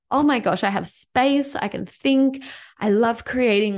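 high, bright-eyed rush of relief; delighted gasp. Retold or imitated. Telling listeners how her freed-up week feels, excited.

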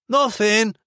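high Mancunian call back. A narrator's reading. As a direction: call out a dismissive denial. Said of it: "He raised his voice".

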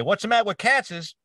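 blunt New Yorker. Retold or imitated. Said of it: "because the guy said".

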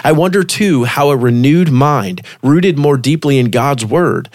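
measured devotional reading voice; article read aloud. Real, not acted. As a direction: read the passage aloud, evenly paced.

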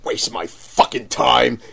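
slow, drawn-out grumble, not quite private; audible muttering. Retold or imitated. Vendor clearing the table, grumbling too audibly about the customer. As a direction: grumble it slowly, as if to yourself. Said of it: "I thought I was mumbling it under my breath".

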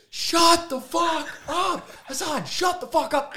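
high, stretched, exasperated mock yell; exasperated retort. Trying to shut up his talkative best friend, exasperated. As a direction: cut your friend off without real anger. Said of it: "it's not like I'm mad at him".

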